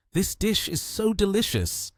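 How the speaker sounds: high-pitched delight in the dish; loving satisfaction. A narrator's reading. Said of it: "with a satisfied expression spoke with all his love".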